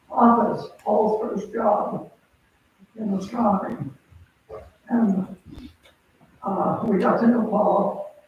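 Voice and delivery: muffled behind a face mask; through a face mask. Real, not acted. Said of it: "can you hear me with the mask".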